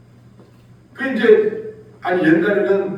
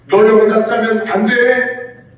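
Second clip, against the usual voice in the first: slow, louder, higher warning to a puppy; scolding the dog; 5 semitones higher, 5 dB louder than usual. Retold or imitated. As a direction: wag a finger at the dog, drawn out. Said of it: "할 때 부르는 그 이름은 또 달라요".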